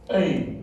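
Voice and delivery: "A" held as a long ay vowel; long A class sound. Shown as a demonstration. Teacher demonstrating the tsere vowel, isolated long "A". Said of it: "that makes the sound A".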